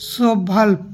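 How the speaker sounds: সোভাল্প as "so-valp" for German zwölf; German pronunciation. Shown as a demonstration. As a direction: teach সোভাল্প with a split first syllable. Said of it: "এটাকে বলবো আমরা". (সোভাল্প, German সংখ্যার উচ্চারণে)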